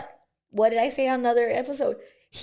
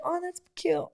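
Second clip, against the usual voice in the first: sarcastic; 7 semitones higher, 5 dB quieter than usual. Retold or imitated. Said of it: "'Cause it was just so sarcastic".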